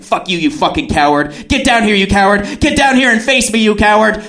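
insults in a rising mock yell; mock angry taunting. Woman outside calling him down, mock angry taunts. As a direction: imitate someone daring a coward down. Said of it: "she's calling me a piece of shit".

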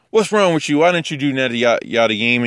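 high-pitched imitation of a scolding critic; mock confrontational. Critic correcting someone already eating challah, mock confrontational. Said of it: "You won't be all like".

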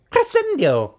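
high, dramatic villain shout; Voldemort. Retold or imitated. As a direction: belt it like a dark wizard. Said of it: "Whereas Voldemort would say".

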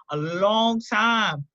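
"long time" stretched out very slowly; drawn-out emphasis. Real, not acted. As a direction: drag out "long time" to drive it home. Repeats phrase to drive it home.

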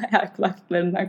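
laughing through an apology. Real, not acted. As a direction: giggle while apologizing. Laughs after her loud shout. (gülerek özür dileyen)

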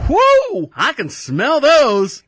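high, loud whoop then slow drawn-out words; wife cheering at the smell; excited whoop. Retold or imitated. Wife whooping at the wings, excited and loud.

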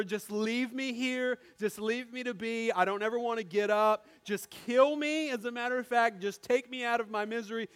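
begging from the bathroom floor, in mock agony; retold pleading. Patient on the floor begs to be left, pained plea. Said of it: "I just remember".

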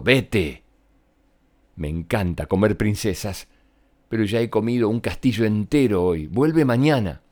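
a lightly voiced greedy dragon, bored and busy. Dragon speaks again. (dragón perezoso, con voz ligeramente actuada)

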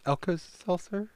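Alka-Seltzer said slowly as Elka-Saltzer; Alka-Seltzer spelled out slowly, rising; careful retry. Real, not acted. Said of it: "Try again".

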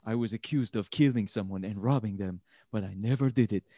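half-hearted Middle Eastern accent impression of the prisoner; mock Middle Eastern accent. Imitating a Netflix prison documentary host, light Middle Eastern accent. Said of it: "Middle Eastern, maybe, accent that I went with".

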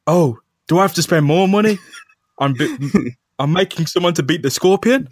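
high, fretting editor; high, whiny complaining boss. Retold or imitated. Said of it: "He's like".

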